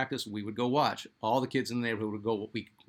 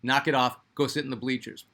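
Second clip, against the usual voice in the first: put-on louder, scolding order to kids; mock yell; 5 dB louder than usual. Trainer yelling at kids to clear off, mock yell. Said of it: "he would yell at us".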